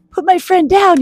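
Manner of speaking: high, loud storybook yell; fierce little mitten hollering; indignant yell. A narrator's reading. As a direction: order the attackers off a friend. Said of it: "yelled Mitten".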